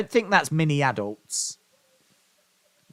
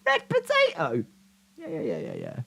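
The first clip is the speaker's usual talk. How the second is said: very high, breathless wheezing squeal; wheezy voice; 11 semitones higher, 5 dB quieter than usual. Real, not acted. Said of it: "I can't get my breath".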